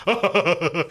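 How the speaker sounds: put-on laughing fit; mimicked hard laugh. Podcaster mocking the actor laughing at himself, mimicked laugh. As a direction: imitate his self-amused laugh. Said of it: "All that".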